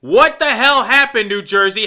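frustrated fan scolding the Devils; rant. Real, not acted. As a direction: vent at the team. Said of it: "It's time for me to rant".

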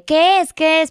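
urgent asking. Retold or imitated. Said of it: "le pregunto al papá de".

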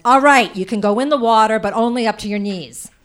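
put-on aunt Pat giving in to the whining kids, loudly; exasperated aunt. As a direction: snap it out, her last nerve gone. Fed-up aunt gives permission.

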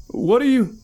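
high, loud terrified cry; panicked under fire. A narrator's reading. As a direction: scream it in terror. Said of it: "said Deline".

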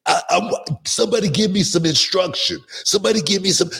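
high, pleading cry for instruction; exasperated plea. Retold or imitated. To the TNA bosses, begging for some direction, exasperated and high. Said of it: "Keep your mind if".

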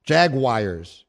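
Jaguars said jag-wire, mocking; imitating his Jaguars. Host echoing his co-host's odd Jaguars, jag-wire. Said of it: "How are you getting Jaguars from that spelling?".

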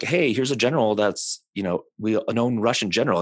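lightly acted accusation; pointing out evidence. Voicing accusers in retold exchange.

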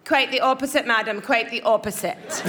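lightly mimicked prim, proper politeness; a touch of courteous shop-assistant put-down; mock polite saleswoman. Sales girl answering a customer in the dressing room, mock polite. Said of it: "she was so polite".

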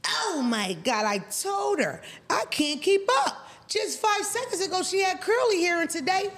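high mock voice of a white trailer-park lady; Roseanne-type white lady. Mocking the nosy white neighbour in a high put-on voice. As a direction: camp up the nosy neighbour's chirpy complaint. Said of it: "bitch look like Roseanne. That's how she sound. White, trailer parky".

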